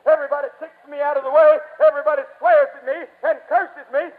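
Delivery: loud, rushed protest; Bartimaeus, incredulous outburst. Acted. Blind beggar can't believe he is called, loud incredulity. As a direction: pour out the grievance in disbelief. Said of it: "What, call me?".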